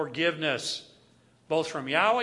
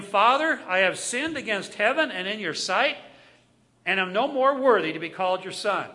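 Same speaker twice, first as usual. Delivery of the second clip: prodigal son's plea; 3 semitones higher, 7 dB louder than usual. Acted. Prodigal son pleads with father.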